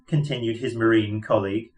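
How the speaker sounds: ordinary talk, nothing marked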